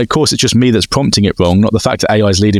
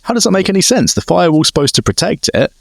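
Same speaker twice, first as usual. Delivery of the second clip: incredulous; 7 semitones higher than usual. Retold or imitated. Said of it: "I'm like".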